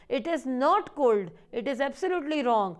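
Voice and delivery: slow, stressing not and absolutely; firm correction. Shown as a demonstration. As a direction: correct the pupils firmly, word by word. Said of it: "बहुत से लोग इसको गलत बोलते हैं". (धीरे और ज़ोर से, not और absolutely पर दबाव)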